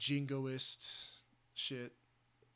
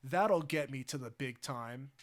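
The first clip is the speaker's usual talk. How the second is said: Joker voice; 6 dB louder than usual. Retold or imitated. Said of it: "do my Heath Ledger Joker impression".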